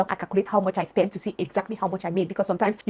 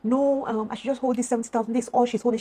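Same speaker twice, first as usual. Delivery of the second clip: higher-pitched retold protest; imitated friend's protest; 4 semitones higher than usual. Friend stalling over the pay, imitated protest. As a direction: put on the friend's higher voice, hedging. Friend's reply acted out in story.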